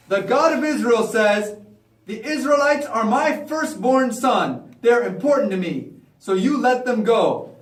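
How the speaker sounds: slow, measured proclamation; God's message via Moses. Acted. Moses relays God's demand to Pharaoh, slow proclamation. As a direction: deliver a slow, solemn decree.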